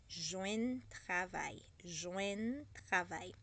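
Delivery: slow, careful Joindre travail; slow teaching repeat. Shown as a demonstration. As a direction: spell out Joindre travail slowly. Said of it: "in Haitian Creole is joindre travail". (répéter lentement Joindre travail)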